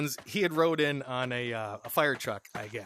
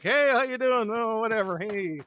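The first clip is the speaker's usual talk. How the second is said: bright hey pitched up high, easing down; breezy, higher-pitched hello; casual greeting; 6 semitones higher than usual. Retold or imitated. Greeting someone at the party, casual greeting.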